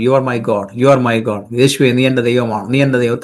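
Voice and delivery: low, steady devotion to God; earnest, low-pitched repeated confession; heartfelt prayer. Shown as a demonstration. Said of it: "ഹൃദയം കൊണ്ട് പറയണം".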